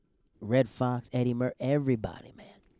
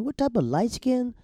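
much higher, incredulous question; mock baffled; 13 semitones higher, 4 dB louder than usual. Comic baffled by friend's singing, high incredulous squeak.

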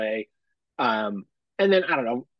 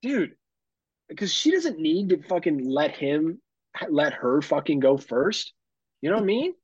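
higher, exasperated complaining; worked-up venting, pitched up; pissed-off rant; 6 semitones higher than usual. Real, not acted. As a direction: rant in incredulous annoyance, stretching key words. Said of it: "I'm still pissed".

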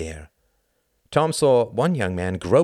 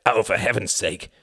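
mildly exasperated snap; a touch of impatience, voice slightly raised; 3 semitones higher, 4 dB louder than usual. A narrator's reading. Quentin turning away from the brothers, mildly snapping. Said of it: "snapped Quentin".

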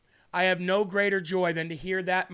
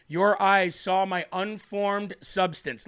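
slow reading; slower than usual. Shown as a demonstration. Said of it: "Let me repeat that one more time".

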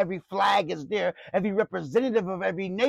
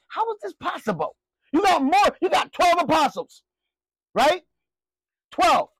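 amazed crowd; 8 semitones higher, 4 dB louder than usual. Acted. Preacher voicing the amazed crowd.

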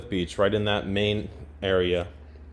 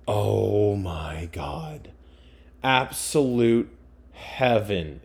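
slow, breathy whisper of awe; awed whisper; much slower than usual. Real, not acted. Raving about cheese curls in a slow awed whisper. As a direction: whisper it like it's too good to say aloud.

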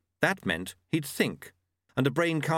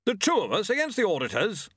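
put-on higher, booming old warrior; War's voice; 9 semitones higher than usual. A narrator's reading. War talking to Death about the auditors, hearty. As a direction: play him as a hearty old soldier.

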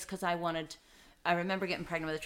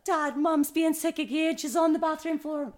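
put-on higher, louder, slow child's voice; imitating her son; 11 semitones higher, 7 dB louder than usual. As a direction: tattle like a young son. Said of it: "my son was like".

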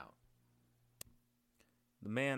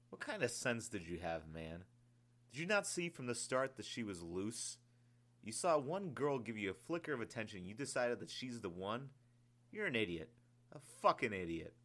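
spat contempt; 3 semitones higher than usual. Acted. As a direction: spit the insults at him. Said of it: "the man spat".

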